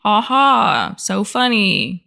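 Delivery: slow, dry sarcasm; sarcastic. Real, not acted. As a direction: drag it out, deadpan sarcastic. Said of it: "sarcastic repeat".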